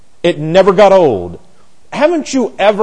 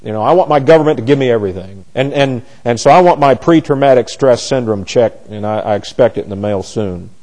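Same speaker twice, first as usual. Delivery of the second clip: mock entitled citizen; 5 semitones lower than usual. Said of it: "Isn't that what we are".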